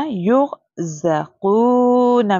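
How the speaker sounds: युग said with a thick, heavy र at a slow reciting pace; heavy ra recitation. Shown as a demonstration. Teacher reciting for her pupils, heavy र in युग. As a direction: recite युग ज़ क़ू ना slowly with the र full and heavy. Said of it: "रॉ को पुर पढ़ा".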